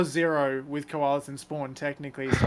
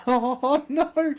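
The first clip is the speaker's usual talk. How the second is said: gleeful oh no; 10 semitones higher, 5 dB louder than usual. Real, not acted. Reacting to friend's pain.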